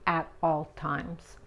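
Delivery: slow, careful "At all times"; slow English phrase demo; slow model. Shown as a demonstration. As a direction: say "At all times" slowly, linked. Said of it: "se dice así".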